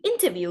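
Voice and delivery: interview with the T fully pronounced; British T. Shown as a demonstration. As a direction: sound out the T in interview. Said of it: "So there she pronounced the T".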